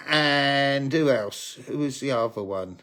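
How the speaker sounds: trailing off, blanking on names; losing the thread, voice fading; brain freeze. Real, not acted. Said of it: "I've got brain freeze".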